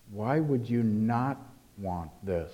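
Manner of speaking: slow, reflective rhetorical question; asking a question. Acted. Preacher puts the text's question to congregation, slow questioning tone. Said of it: "it's as if it asks a question".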